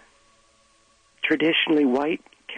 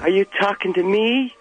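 Travis Bickle impression; 5 semitones higher, 4 dB louder than usual. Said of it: "reprise the role of Travis Bickle".

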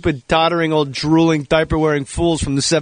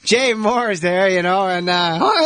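higher, loose comedian impersonation; put-on high, lazy delivery; Tracy Morgan; 4 semitones higher, slower than usual. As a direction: draw the words out in a raised comic voice. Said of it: "heard a Tracy Morgan impression".

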